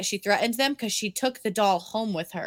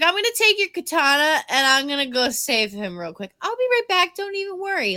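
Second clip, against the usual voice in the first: breezy imitation, rising higher at the end; nonchalant; 6 semitones higher than usual. Girl casually heading off to rescue him, nonchalant. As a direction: toss it off as if it's nothing. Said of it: "Like, it was nothing".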